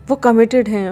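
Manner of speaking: a sudden loud jealous outburst; loud protest. A narrator's reading. Wangchi protests loudly to Wing about his brother.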